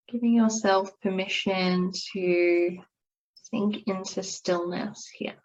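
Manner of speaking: calm, unhurried yoga nidra guidance with long pauses; guided meditation. Acted. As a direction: ease them gently into rest and stillness. Leads a guided relaxation.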